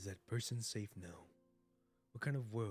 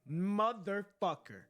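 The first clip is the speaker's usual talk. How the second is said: slow, loud frustrated curse; shouted curse; 4 semitones higher, 10 dB louder, much slower than usual. Real, not acted. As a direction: let the curse rip. Frustrated outburst.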